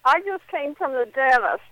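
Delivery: talking through gauze; mouth full. Real, not acted. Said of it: "I got my mouth full of gauze".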